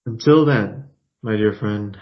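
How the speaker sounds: a firm, fond farewell; lightly voiced courtly farewell. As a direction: say goodbye with gravity. Parting line as Daniel.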